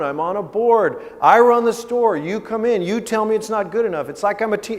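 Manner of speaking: loud, high, indignant venting; built-up resentment pouring out, pitch climbing; pent-up outburst. Retold or imitated. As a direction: imitate a grown son finally unloading. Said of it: "kind of regurgitating a lot of emotion".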